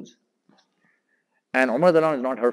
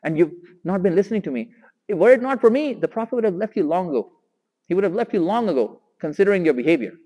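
raised, louder rebuke from a father; stern scolding father; 4 semitones higher, 5 dB louder than usual. Retold or imitated. Umar scolds his daughter over her behavior, raised stern voice. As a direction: scold her firmly, a bit higher and louder.

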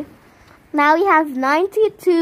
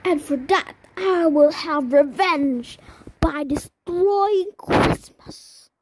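slow theatrical villain menace. Acted. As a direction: threaten like a cartoon villain. Villain line in game.

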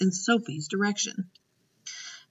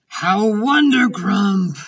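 slow, louder drawn-out exclamation; beaming delight; 3 semitones higher, 6 dB louder, much slower than usual. A narrator's reading. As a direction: savour it with beaming joy. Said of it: "still beaming".

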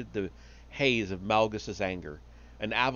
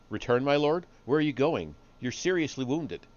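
higher-pitched, worried questioning; worried underling's raised voice; concerned protest; 5 semitones higher than usual. Acted. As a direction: question your master with mild alarm. Pilot questions his departing lord.

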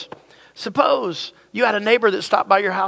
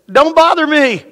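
annoyed neighbor; 7 semitones higher, 8 dB louder than usual. Acted. Grumpy neighbor woken at midnight.

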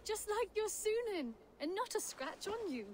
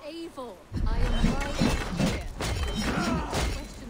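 far-off voice; 5 semitones lower, 12 dB louder, slower than usual. Acted. Petra's distant voice calling loudly.

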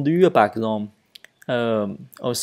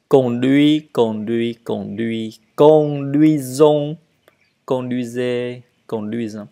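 pronunciation drill; 3 dB louder than usual. Shown as a demonstration. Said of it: "à lire et à le dire".

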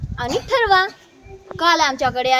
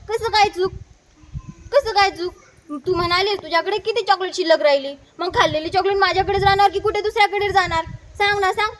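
higher-pitched, acted indignation, rushing through the argument; mildly angry protest; 3 semitones higher, faster than usual. Child arguing with aunt over a wrong answer, mildly angry. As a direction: protest with a touch of anger. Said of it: "मी रागातच म्हणालो".

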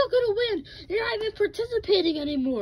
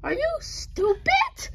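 high whiny toy voice; 8 semitones higher, slower than usual. Pretend. Toy character mocks rival.

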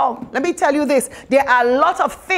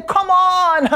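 exasperated, raised a little higher; frustrated Jesus; 4 semitones higher than usual. Retold or imitated. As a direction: sigh it out like a tired teacher. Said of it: "the frustration of Jesus".

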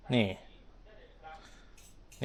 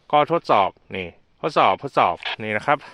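over walkie talkie; 4 semitones lower, 4 dB louder than usual. Real, not acted. Radio test transmission.

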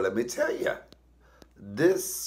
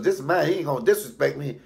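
high, indignant complaint; imitating mama's outraged protest; retold outrage, raised voice; acted indignant mother; 5 semitones higher, 4 dB louder, faster than usual. Acts mama complaining to police.

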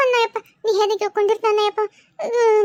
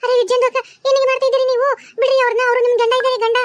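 loud, urgent scolding; scolding loudly; 3 semitones higher, 6 dB louder, faster than usual. Acted. Neighbour loudly scolds possessed woman to release husband. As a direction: stop her, loudly.

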